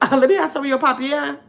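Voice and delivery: light imitation of a New Orleans cousin, each line ending on a tagged yeah; a hint of the New Orleans cousins' way of talking, casual and teasing; mock New Orleans cousin talk. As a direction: lightly play your New Orleans cousin asking for pop. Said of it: "that's how they talk".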